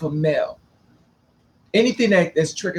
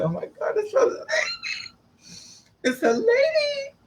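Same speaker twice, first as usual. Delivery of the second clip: very high squeaky mock astonishment; hammed-up high-pitched shriek of discovery; mock shocked squeal. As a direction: squeal it far up high, stretching the last one. Mock shock at friend's effeminate greeting.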